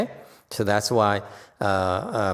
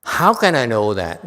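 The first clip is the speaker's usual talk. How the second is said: smart-aleck challenge; 2 semitones higher, 6 dB louder than usual. Retold or imitated. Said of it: "the smart aleck, Punya Yasha, said".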